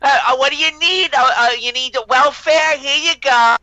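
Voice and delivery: hammed-up Pakistani immigrant asking for welfare, uh-uh stammer; mocking Pakistani accent caricature. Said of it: "Pakistani immigrant".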